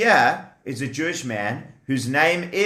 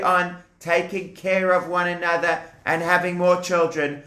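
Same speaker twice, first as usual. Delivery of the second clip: gentle reassuring; 2 semitones higher than usual. Acted. Brave wife comforting husband.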